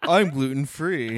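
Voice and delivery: mocking brag. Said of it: "That's what it sounded like just then".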